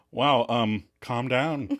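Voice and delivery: understated sardonic quip; deadpan it as a retold jab; mildly sarcastic aside. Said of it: "Chandler gives a sardonic".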